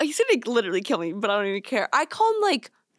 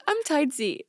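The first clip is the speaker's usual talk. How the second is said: mock baby talk, a little higher; 3 semitones higher than usual. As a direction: whine it like a toddler. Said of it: "But I'll say it like a baby voice".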